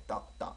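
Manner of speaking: 떠 with a hard, tense initial tt; short, low 떠 with a tensed onset; tense the first sound of 떠; strong tense consonant. Shown as a demonstration. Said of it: "떠 발음이 더 강해요".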